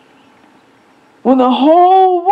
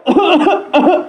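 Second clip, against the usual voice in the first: mama's cough; 5 semitones higher than usual. Retold or imitated. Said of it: "all of a sudden I hear".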